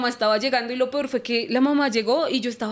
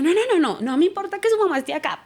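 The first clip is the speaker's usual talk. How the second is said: angry refusal; 7 semitones higher than usual. Retold or imitated. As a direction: push back at him, raised and high. Quarrel with boyfriend, refusing.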